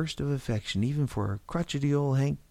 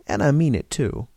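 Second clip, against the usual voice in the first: louder, stress on mean; firm; 2 semitones higher, 3 dB louder than usual. Acted. Lean on "mean". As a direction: George insists he means it, firm. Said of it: "George repeated firmly".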